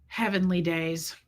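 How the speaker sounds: low, slow imitation; imitated slow reaction to surprising news; Fred's catchphrase. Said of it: "He would say".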